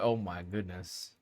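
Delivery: low, soft, slow exclamation; quiet and pitched well down. Real, not acted. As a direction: say it low and hushed, unhurried. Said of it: "talking about my tone of voice".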